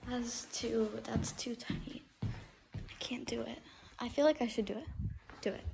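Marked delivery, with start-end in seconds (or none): 0.1-3.6 whispering while hiding. Real, not acted. Squeezing into a hiding spot.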